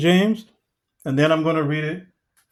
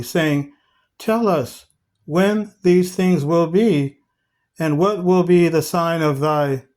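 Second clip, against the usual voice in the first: raised, emphatic Bible-reading voice; scripture reading; 3 semitones higher than usual. Acted. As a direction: read the verse out to the congregation, slowing on the questions. Reads scripture aloud to congregation.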